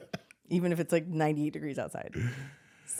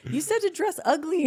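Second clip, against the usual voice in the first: imitating brother; 11 semitones higher, 3 dB louder than usual. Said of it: "He was like".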